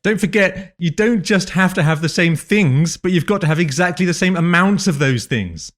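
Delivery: sweetly needling reminder; sweetly passive aggressive. Acted. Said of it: "This is my passive aggressive voice".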